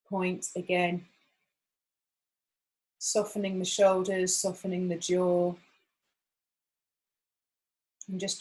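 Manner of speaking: gentle meditation voice, long pauses between phrases; guided meditation. Acted. Guide settling a group into acupressure practice, calm and unhurried. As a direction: guide them gently, leaving room to breathe.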